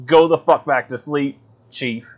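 irritated snap, fast at the end; angry Amos. Retold or imitated. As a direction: tell him off impatiently. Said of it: "Amos is like".

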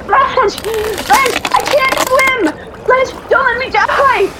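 terrified screaming. Acted. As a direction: scream as the ice gives way. Ice breaking, drowning cries.

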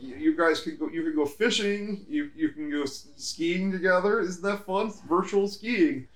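chirpy, mechanical host pitching fun; Zuckerberg robot voice. Retold or imitated. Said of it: "Just talk like a robot".

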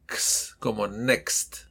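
"next" slow, with a crisp ks. Shown as a demonstration. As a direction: stress the ks in "next". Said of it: "como una K y una S".

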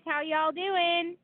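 drawn-out Southern drawl; slow, put-on Southern greeting; Southern accent. Reads out a listener's hello to the co-host, Southern accent. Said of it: "I love using a Southern accent".

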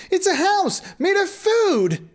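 put-on high, slow child's exclamation; excited Hansel. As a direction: gasp it out like an amazed boy. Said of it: "Hansel exclaimed".

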